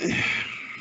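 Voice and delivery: long, soft exhale; disappointed sigh. Real, not acted. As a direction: sigh softly while searching for words. Hesitates over a disappointing verdict.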